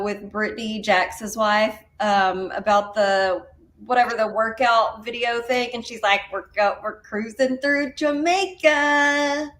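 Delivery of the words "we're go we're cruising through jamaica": put-on slow, drawn-out country accent. Imitating the wife's country accent from a workout ad. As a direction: mimic her thick country accent. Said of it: "her countryest country accent".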